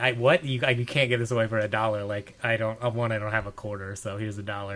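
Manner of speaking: normal talking voice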